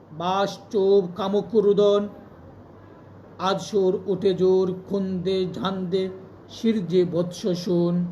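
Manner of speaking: slow, measured declamation with drawn-out words; stately verse, each phrase stretched out; poem recitation. Acted. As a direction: recite it slowly and forcefully, easing down at the close. Recites a Nazrul poem on air.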